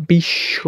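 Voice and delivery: বিশ্ব as "bish-sho", b silent; doubled consonant. Shown as a demonstration. Teacher showing students doubling, বিশ্ব as "bish-sho". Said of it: "একবারে বিশ আবার শো".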